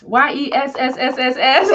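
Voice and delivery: YES with a long hissing s tail; drawn-out s like a snake. Retold or imitated. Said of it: "Corey says".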